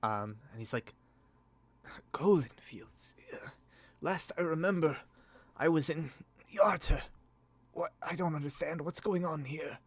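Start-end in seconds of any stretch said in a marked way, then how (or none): 2.1-9.8 higher, faltering, bewildered voice; confused. Acted. Rescued lord told where he is, confused. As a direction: grope for the memory, cracked and confused. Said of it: "confused look on his face".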